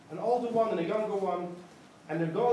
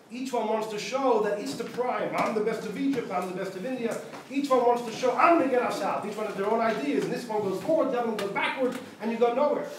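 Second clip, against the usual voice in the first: raised voice, acting out rivals; mock competitive boasting, a bit louder and higher; mildly boastful; 3 semitones higher, 4 dB louder than usual.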